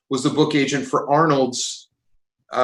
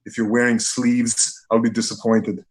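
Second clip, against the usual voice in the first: Arnold impression; 5 semitones lower than usual. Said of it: "He goes".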